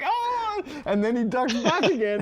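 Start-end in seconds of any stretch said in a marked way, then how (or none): 0.0-0.6 high mock scream; imitated alarmed yell. Developer retelling the playtest reaction, imitated high yell. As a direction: imitate a startled cry, pitched high. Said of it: "and we're like".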